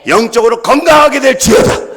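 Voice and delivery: loud proclaiming shout; shouted blessing. Real, not acted. Pastor proclaiming health over the congregation, shouting. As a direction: declare it over them at full voice.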